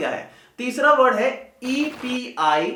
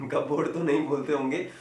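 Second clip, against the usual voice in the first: amused; 7 semitones lower, 6 dB quieter than usual. Real, not acted. Amused at the wrong pronunciation.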